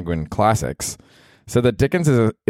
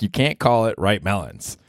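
incredulous; 2 semitones higher than usual. Retold or imitated. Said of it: "He was like".

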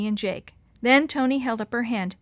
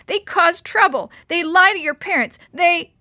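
loud, much higher, upset rant; sobbing rant; 8 semitones higher, 9 dB louder than usual. A narrator's reading. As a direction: pour it out, crying and furious. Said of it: "she sobbed".

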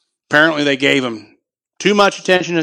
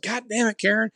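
exasperated pleading; 9 semitones higher than usual. Retold or imitated. Retold pressing angry mom.

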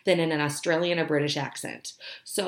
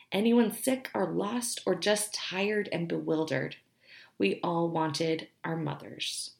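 tender reading. Shown as a demonstration. Reading a sweet quote about mothers to viewers, tender. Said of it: "tender one about mothers".

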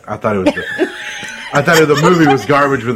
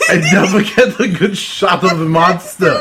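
put-on Arnold Schwarzenegger accent; 2 semitones higher than usual. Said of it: "Now you sound like Arnold Schwarzenegger".

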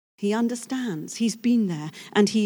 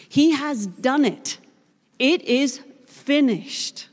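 victory cry; 3 semitones higher, slower than usual. Acted. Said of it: "raised the victory cry".

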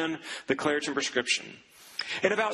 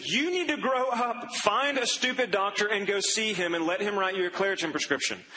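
fed-up brother; 2 semitones higher than usual. Retold or imitated. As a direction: snap at her to grow up. Brother loses patience with sister.

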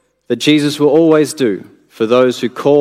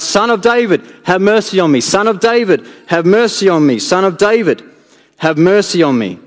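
higher, pleading cries for mercy; crying out repeatedly; 5 semitones higher than usual. Acted. Blind beggar calls out to passing Jesus, pleading higher. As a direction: call out again and again, begging. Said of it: "cries out".

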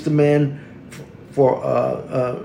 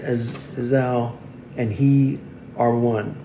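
formal prayer. Real, not acted. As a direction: pray it aloud with deliberate pauses. Leads a collect prayer.

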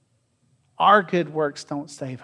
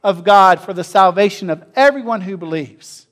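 ringing proclamation; 5 dB louder than usual. Acted. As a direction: read out loud and strong. Preacher reading the verse aloud.

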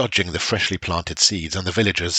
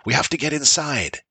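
shouting; 7 semitones higher than usual. A narrator's reading. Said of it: "shouted Bran".

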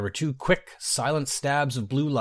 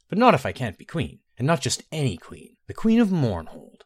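determined; 3 semitones higher than usual. Acted. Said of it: "She said this determinedly".

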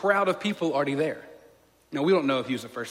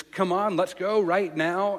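urgent hurry; 5 semitones higher, 6 dB louder, slower than usual. Retold or imitated. Father's urgency.

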